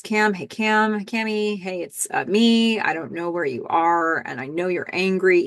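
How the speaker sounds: searching for words, halting retold phone message; stammering. Billy leaves Cam a phone message, stammering. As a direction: imitate someone stumbling through a hard message. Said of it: "He's stammering".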